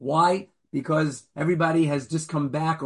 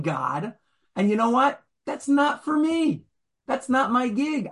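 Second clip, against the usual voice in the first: voicing Esau; 4 semitones higher than usual. Rabbi voices Esau's excuse.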